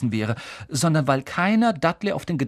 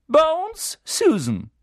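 loud, high roll call; 14 semitones higher, 5 dB louder, much slower than usual. A narrator's reading. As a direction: call the name across the hall. Teacher calls out names. (laut aufgerufener Name)

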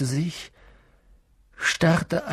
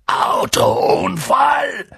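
loud, slow, drawn-out AUTOUNFALL; thundering roar; 9 semitones higher, 6 dB louder, much slower than usual. A narrator's reading. Giant enraged at the Dursleys' lie, thundering. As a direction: bellow AUTOUNFALL in raised, outraged pitch. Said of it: "donnerte Hagrid und sprang so wütend auf".

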